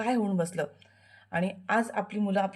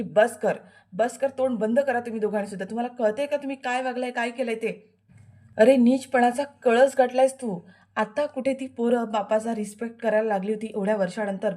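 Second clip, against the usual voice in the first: higher, louder outraged rebuke; furious scolding; 3 semitones higher, 3 dB louder than usual. Acted. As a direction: shut them both up in fury. Shilpa furious at both. (संतापलेली Shilpa दोघांना रागाने झापते)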